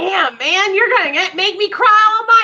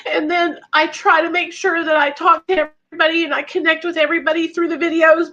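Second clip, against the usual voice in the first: tearful. Real, not acted. Explaining her videos to the fan, tearfully. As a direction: keep talking while welling up. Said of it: "I'm getting emotional".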